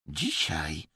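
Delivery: soft, eerie, otherworldly echo; possessed voice. A narrator's reading. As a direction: speak as if in a trance. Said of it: "głosem nie swoim, nawiedzonym". (nawiedzony, nieswój głos)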